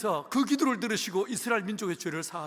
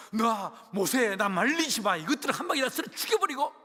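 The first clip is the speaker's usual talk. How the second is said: heaving, slowed-down start, then rushing angrily; God with his lid blown, barely held back; furious God. Acted. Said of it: "극하게 숨을 내쉬면서". (씩씩대며 분노하는 하나님)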